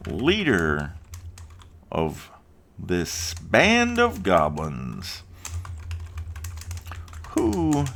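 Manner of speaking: high, slow, pompous goblin chief; goblin leader. Acted. Goblin leader threatens the player, high and slow. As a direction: ham up a grandiose goblin boss, drawn out.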